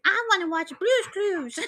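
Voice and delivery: high-pitched little pet voice; dog's voice. Acted. Podcaster voicing her dog wanting a cartoon, high babyish voice. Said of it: "he's like".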